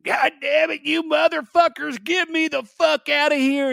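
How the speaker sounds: high-pitched frantic yell, acted out; retold screaming. Daughter imitating her panicking dad at the scan, screaming. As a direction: mimic a man screaming to be let out. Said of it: "he's screaming at people".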